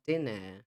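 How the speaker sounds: British "dinner" with no final r; dinner ending in "uh"; British English dinner, r dropped; British pronunciation. Shown as a demonstration. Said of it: "foi o inglês britânico".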